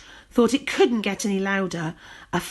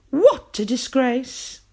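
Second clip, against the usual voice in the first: sniffy disdain; 6 semitones higher, 5 dB louder, slower than usual. A narrator's reading. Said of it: "turned her nose up".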